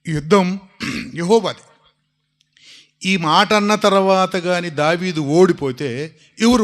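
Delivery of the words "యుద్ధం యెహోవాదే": loud cry. Shown as a demonstration. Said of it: "ఎంత గట్టిగా అరవాలి".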